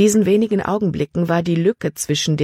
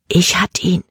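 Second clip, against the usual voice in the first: whisper; 3 semitones higher than usual. A narrator's reading. Emma has her baby safe at last, whispering. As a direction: breath-only whisper. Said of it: "flüsterte Emma endlich".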